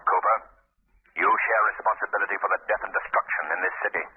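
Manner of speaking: the Shadow taunting a frightened hired man, low and eerie. Acted. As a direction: speak as an unseen avenger looming over him. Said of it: "I'm the Shadow".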